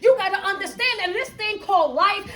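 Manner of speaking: driving, emphatic motivational preaching; fervent preaching. Real, not acted. Coach warning listeners about skipping life's lessons, preaching. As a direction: preach it, leaning hard on key words.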